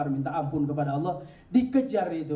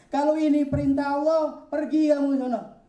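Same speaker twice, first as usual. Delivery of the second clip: higher, louder, firm command to go; resolute wife; 11 semitones higher, 5 dB louder than usual. Acted. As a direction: send him off with resolve. Hajar sends Ibrahim away.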